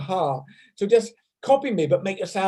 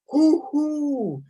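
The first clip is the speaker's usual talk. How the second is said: owl hoo; 9 semitones higher than usual. Shown as a demonstration. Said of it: "In fact".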